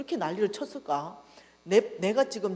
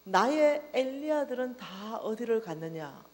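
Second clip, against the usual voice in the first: slow grieving question; slower than usual. Retold or imitated. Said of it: "하나님의 눈물을 보았어요".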